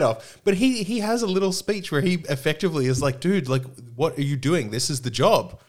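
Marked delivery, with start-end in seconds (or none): 3.2-5.6 a touch higher, mock complaining clerk; lightly voiced priest. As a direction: whine that it is just the job. Hell Priest's speech about his job.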